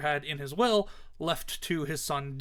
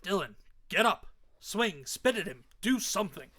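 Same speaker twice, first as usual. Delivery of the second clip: raised, pressing voice; urgent urging; 4 semitones higher than usual. Acted. Father urges his beaten son to fight, urgent. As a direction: urge him on, mildly alarmed.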